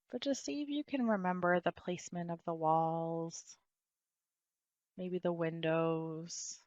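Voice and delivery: unhurried guiding voice with long pauses; guided meditation. Real, not acted. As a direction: guide them into stillness, leaving space between phrases.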